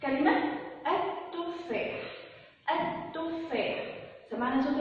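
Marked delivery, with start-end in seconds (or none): 0.9-2.0 "التفاح" slow and soft, lam silent, doubled t. Shown as a demonstration. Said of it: "ما سمعناش صوت اللام". 2.7-3.9 "التفاح" drawn out softly with no l; silent lam. Shown as a demonstration. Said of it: "ما سمعناش صوت اللام".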